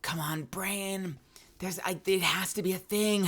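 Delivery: hushed frustrated whisper; whispering to self. Retold or imitated. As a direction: whisper it to yourself, straining to recall. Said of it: "sitting there like".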